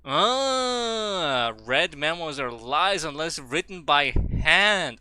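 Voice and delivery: high, slow put-on reading voice; mysterious reading. Streamer reading the game note in a mock voice. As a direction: intone it like a riddle.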